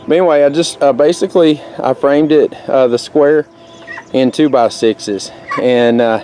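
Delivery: panting a little between words; winded after climbing, catching breath. Real, not acted. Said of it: "whew, I'm out of breath".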